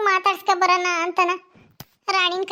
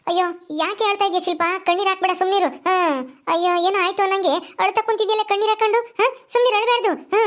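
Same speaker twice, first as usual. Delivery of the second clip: high village auntie voice; consoling mother-in-law; 3 semitones higher than usual. Acted. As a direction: hush a crying neighbour. Voices older woman consoling.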